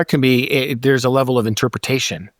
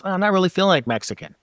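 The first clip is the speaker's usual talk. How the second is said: higher, fast brush-off; wife's excuse, lightly voiced; 6 semitones higher, faster than usual. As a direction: toss it off quickly. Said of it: "Then I was like".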